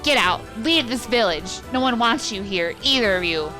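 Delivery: loud shout; furious yell. Acted. Bully Demo yelling at Kaine and her grandmother, loud. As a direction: drive them out of the village.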